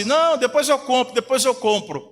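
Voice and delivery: a hint of an impatient father; father putting off. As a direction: play a father stalling a child. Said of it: "Aí o pai fala assim".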